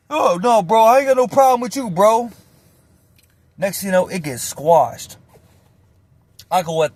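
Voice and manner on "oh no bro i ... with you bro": backing out. Retold or imitated. Cornered guy backing out.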